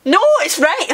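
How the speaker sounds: spluttering mid-laugh; spraying while laughing; spit take. Real, not acted. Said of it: "I spat everywhere".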